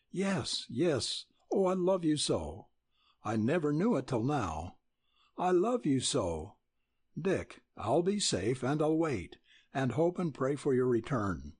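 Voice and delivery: a hint of Nell pouring her heart out; young woman in love. Nell confesses love to Dick.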